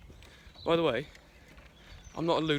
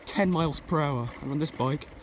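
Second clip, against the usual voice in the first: raised voice over the wind; shouting over wind; 3 semitones higher, 5 dB louder than usual. Real, not acted. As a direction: call out over rushing wind. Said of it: "I don't know if you can hear me over the wind".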